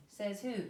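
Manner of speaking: says who as two strong beats; spondee stress. Shown as a demonstration. Teacher showing students a spondee, says who evenly stressed. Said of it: "is stressed, stressed".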